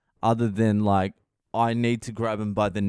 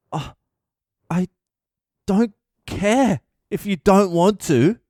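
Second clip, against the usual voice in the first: high, loud exasperated yell; meltdown shout; 9 semitones higher, 5 dB louder than usual. Retold or imitated. Yelling at a defiant kid during a meltdown. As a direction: lose it at the kid. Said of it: "because I was having a meltdown".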